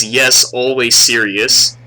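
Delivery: slow, deliberate mock Asian accent; imitated Asian accent. Retelling the student's answer, slow Asian accent. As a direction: repeat it drawn out, Asian accent. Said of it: "He says".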